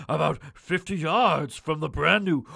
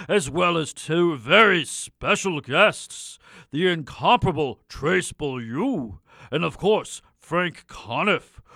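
Jingo the Hawk; 4 dB louder than usual. Acted. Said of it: "Why doesn't Jingo the Hawk introduce the last sketch?".

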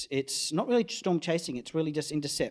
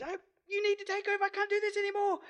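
much higher, fast mock panic; mock panicked partner; faster than usual. Partner begging to swap drivers in the hailstorm, mock panic. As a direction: beg to hand over the wheel.

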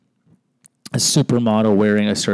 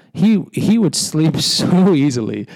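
laughing; 6 semitones higher, 3 dB louder, slower than usual. Real, not acted. Laughing about dad sleeping.

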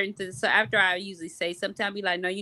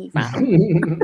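laughing while saying it; 3 semitones lower, 8 dB louder than usual. Real, not acted. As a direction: say it through a laugh. Laughing about her husband.

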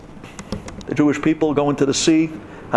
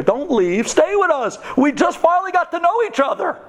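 high, pleading mock coaxing; 13 semitones higher than usual. Egyptians coaxing the Jews to stay, high pleading mock voice. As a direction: beg them to stay in a sugary high voice. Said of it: "They were telling us".

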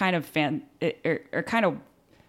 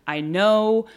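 louder, firm plea to pull it together; dad urging loudly; 5 semitones higher, 5 dB louder than usual. Retold or imitated. Dad urging the sobbing mom to pull it together, louder and firm. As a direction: push her to hold it together. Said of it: "And my dad's like".

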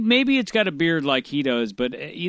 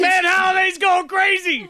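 high excited yell; excited shout; 4 dB louder than usual. Retold or imitated. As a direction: shout it like a wild commentator. Excitedly describing player spazzing.

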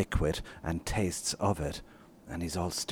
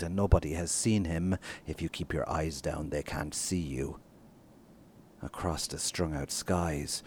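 measured, unhurried novel reading with pauses; literary reading; 3 dB louder than usual. Acted. Author reads his novel aloud to podcast hosts, measured reading. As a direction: read the passage to the listeners, letting lines breathe.

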